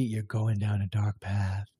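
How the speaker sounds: low, slow, foreboding echo of her words; ominous recalled warning. Retold or imitated. Remembering the doctor's words at 3 a.m., low and ominous. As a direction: let the warning sink in like a haunting memory. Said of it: "I just remembered that lady".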